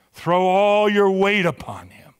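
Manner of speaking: hushed unvoiced whisper of trust. Preacher whispering to the congregation to trust. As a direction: breathe the words, barely voiced.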